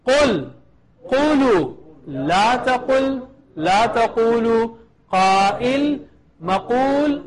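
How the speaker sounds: slow word-by-word drill; measured teacher's recitation with gaps between words; slowly. Shown as a demonstration. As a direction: lead the class slowly, one form at a time. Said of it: "Go ahead slowly".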